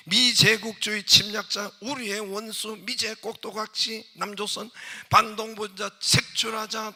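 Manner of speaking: hammed-up North Korean slogan chant; North Korean propaganda. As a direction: bark slogans like a state broadcaster. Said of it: "북한 말이 어때요?".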